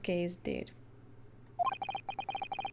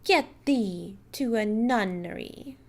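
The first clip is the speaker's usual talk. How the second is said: slow, declaimed stage line; slow grand Shakespearean dismissal; theatrical Hamlet quote; 4 dB louder than usual. Acted. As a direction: fling the line like a ham actor. Actor quoting Hamlet.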